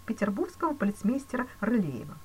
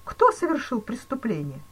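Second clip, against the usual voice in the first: higher, louder alarmed cry; cried out; 6 semitones higher, 7 dB louder than usual. A narrator's reading. Banker crying out at the accusation, alarmed. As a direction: demand it in shock. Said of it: "вскричал банкир".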